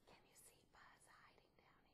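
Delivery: hushed whisper to the class. Acted. Teacher asking kids to spot Buzz, whispered. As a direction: lean in and whisper the question. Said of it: "asks kids quietly".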